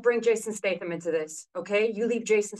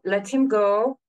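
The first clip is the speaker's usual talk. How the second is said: louder, forceful command; loud take; 6 dB louder, much slower than usual. Shown as a demonstration. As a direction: push it out strong.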